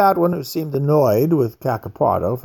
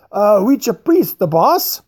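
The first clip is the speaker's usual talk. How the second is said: hesitant interpreter; 8 semitones higher, 4 dB louder, slower than usual. A narrator's reading. Interpreter Giuseppe answers the major.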